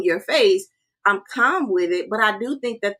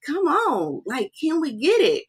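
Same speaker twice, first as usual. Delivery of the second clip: pushing, higher-pitched urging; rally the room, come on; a quick demo of her own fired-up coaching voice; showing her rigor; 6 semitones higher than usual. Shown as a demonstration. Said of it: "I'm kind of a little more".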